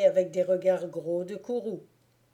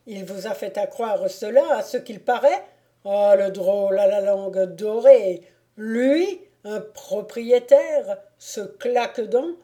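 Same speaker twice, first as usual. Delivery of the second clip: mocking laughter; 8 dB louder than usual. A narrator's reading. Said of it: "en éclatant de rire".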